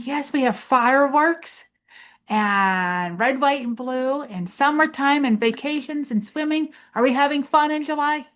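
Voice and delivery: put-on teacher rallying the children; excited cheer. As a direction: pump the kids up about summer. Excited chant about July fun.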